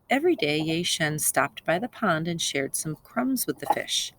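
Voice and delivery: put-on lively storybook reading for children; story narration. A narrator's reading. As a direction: tell the fairy tale to the class. Teacher reads fairy tale aloud.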